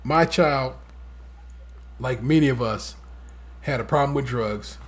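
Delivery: lightly voiced Biden talking to the camera; a hint of earnest Biden. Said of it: "Joe squares up with the camera".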